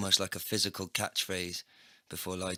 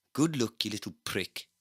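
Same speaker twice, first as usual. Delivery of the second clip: gruff cyborg agent; 3 semitones higher, 5 dB louder than usual. Acted. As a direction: toss off a rude goodbye. McGann's parting insult.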